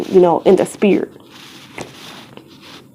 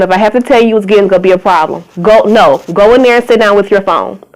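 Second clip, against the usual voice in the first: stern parent; 4 dB louder, faster than usual. Real, not acted. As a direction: lay down the law, no arguing. Scolds a child off camera.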